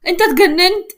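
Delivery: alarmed indignant cry; startled protest. A narrator's reading. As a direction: yelp at him in disbelief. Picked up suddenly, protesting.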